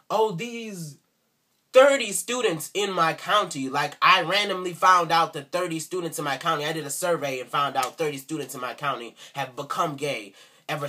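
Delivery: hammed-up Southern accent boasting; mocking Southern accent. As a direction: mimic a small-town Southern kid. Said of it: "I'm sorry for the accent".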